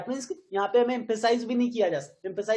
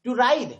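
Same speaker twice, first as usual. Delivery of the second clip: "to ride" with "ride" emphasized; stress on ride; 2 semitones higher, 4 dB louder than usual. Shown as a demonstration. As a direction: hit the word "ride". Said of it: "राइड पे भी आपने emphasise किया".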